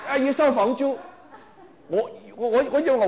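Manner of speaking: chuckling through the words; laughing. Real, not acted. Laughs at own punchline.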